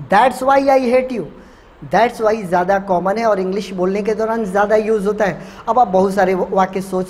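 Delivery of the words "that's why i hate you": each word given slowly to the class; slow, clear teaching read. Shown as a demonstration. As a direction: lay it out slowly and plainly. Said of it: "दो तरीके से बोल सकते हो".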